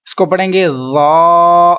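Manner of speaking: ذا slow and gentle, no whistle; gentle model ذا; soft ذا. Shown as a demonstration. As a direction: say ذا softly, no hiss. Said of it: "ذا، نرمی سے".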